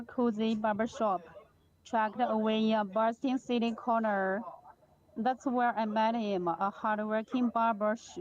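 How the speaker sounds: projecting clearly over the noise; speaking up. Real, not acted. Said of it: "maybe you can just increase your voice a little bit".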